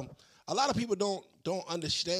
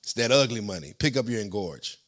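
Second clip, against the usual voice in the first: loud, hyped-up fake commercial pitch; chipper 1950s ad; 12 dB louder than usual. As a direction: sell it like an old radio ad. Reads a mock sponsor ad.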